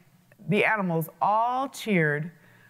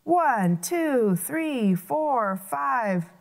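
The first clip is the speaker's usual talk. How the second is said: roaring count; 5 semitones higher, much slower than usual. Acted. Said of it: "with a thunderous roar".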